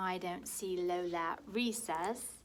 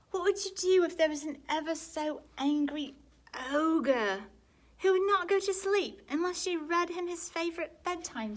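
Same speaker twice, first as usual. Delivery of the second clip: higher and louder, spooky build; dramatic build-up; 9 semitones higher, 10 dB louder than usual. Acted. Brother spinning an ogre tale to Lola, dramatic and loud.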